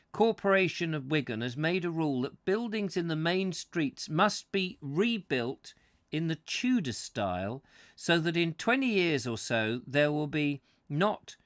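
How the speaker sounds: measured, emphatic book reading; story narration. A narrator's reading. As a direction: read the prose out with deliberate phrasing. Reads book aloud to listeners.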